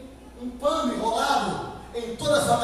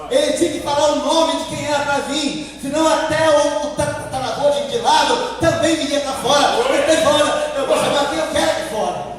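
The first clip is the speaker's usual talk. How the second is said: raised, driving sermon voice; forceful preaching; 4 semitones higher, 5 dB louder than usual. Real, not acted. Preacher explaining the call by name, forceful. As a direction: press the point home to the congregation.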